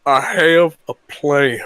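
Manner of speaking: slow, drawn-out impression of a schemer; scheming gang leader. Gang leader pitching Arthur a plan, slow theatrical voice. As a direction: announce it grandly, stretching each word.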